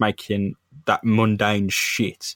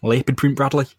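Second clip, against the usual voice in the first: lightly hammed-up Australian hunter; mock Australian swearing; Australian accent; 3 semitones higher than usual. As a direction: do a broad Aussie hunter. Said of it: "I'm sticking with Australian".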